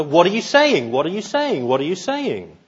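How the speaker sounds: mock exasperation, punched then easing; acted frustration. People of Babel to one another, angry and frustrated. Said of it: "becoming increasingly angry and frustrated".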